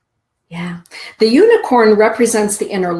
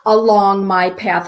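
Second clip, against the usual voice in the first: reading the mantra; 3 semitones higher than usual. Acted. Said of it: "The mantra says".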